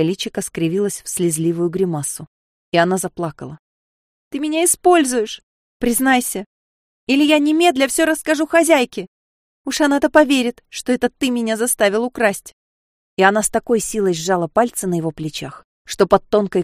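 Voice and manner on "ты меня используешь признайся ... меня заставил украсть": high, loud accusing outburst; angry threatening. Acted. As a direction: turn on him with threats. Sofia turning on Serge. (Софья гневно обвиняет)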